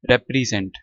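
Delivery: "represent" said rep-ree-zent; EE in the middle. Shown as a demonstration. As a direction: say "represent" with a clear EE as second vowel. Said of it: "आई pronounce करना है".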